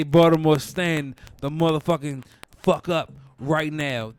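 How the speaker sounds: loud rallying call to Baltimore; rally the hometown crowd; loud hype call. Real, not acted. Calling on his city.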